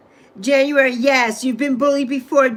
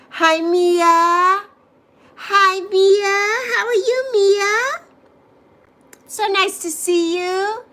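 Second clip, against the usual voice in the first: higher, bright sing-song hello; excited greeting; 5 semitones higher, slower than usual. Real, not acted. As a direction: greet her like a delighted friend. Greeting a viewer on stream.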